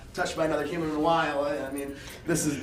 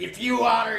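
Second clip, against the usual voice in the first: mock shout; 5 semitones higher, 3 dB louder than usual. Hack shouting after the guy.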